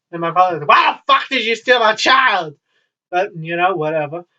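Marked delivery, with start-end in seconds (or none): 0.7-2.6 raised-pitch mock outrage; imitating angry father. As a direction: demand it like a pissed-off dad. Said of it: "my father was pissed off".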